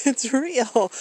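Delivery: high, loud mock amazement; super appreciative. Artist friend amazed by a real postcard, super appreciative. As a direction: imitate a collector who can hardly believe it. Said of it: "he's super appreciative".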